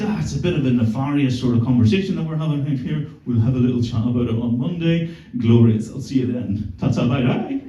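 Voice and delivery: put-on lightly posh British officer accent; hint of a plummy British officer signing off a call; a touch of upper-class British English; posh British naval officer. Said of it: "talking like a British naval officer".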